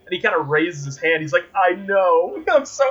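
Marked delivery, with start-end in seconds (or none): 1.5-2.8 higher-pitched mock glee; imitated gleeful delight. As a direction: play him giddily pleased with himself. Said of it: "so happy with himself".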